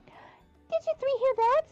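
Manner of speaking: slow, high voiced game hero; character voice. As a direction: play it as an eager hero.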